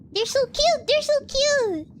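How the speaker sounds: high, adoring repetition; excited gushing. Real, not acted. Streamer finding African creators adorable, excited gushing.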